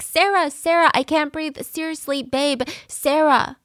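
mock desperate cry for help that fades into pleading; panicked scream. Host retelling boyfriend trapped in suitcase, mock panicked yelling. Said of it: "he's screaming for her".

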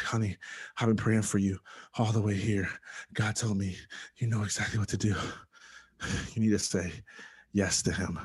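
imitating a winded grandmother, broken into short phrases; halting, puffed delivery with audible breaths between phrases. Grandmother bursting in to her grandson's hospital room, imitated breathlessness. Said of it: "She's out of breath".

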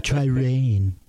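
ad slogan through sucked-in cheeks. Pretend. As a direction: say it with cheeks pulled in. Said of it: "Just suck my cheeks and".

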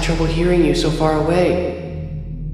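echoey phantom playmate; eerie tube voice, coaxing. Acted. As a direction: greet him from inside the pipe.

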